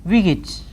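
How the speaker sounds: "wicket" as wick-it; "wicket" reduced end. Shown as a demonstration. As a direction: say "wicket" with weak it. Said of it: "W I C K E T".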